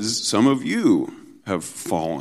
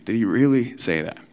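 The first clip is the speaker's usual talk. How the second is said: mocking; 4 semitones higher than usual. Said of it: "mocking God's command".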